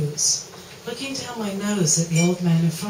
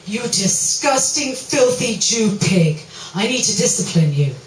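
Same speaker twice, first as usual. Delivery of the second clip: stern degrading insult; 2 semitones higher, 4 dB louder than usual. Acted. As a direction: drag out each insult like a punishment. Saying his requested insults.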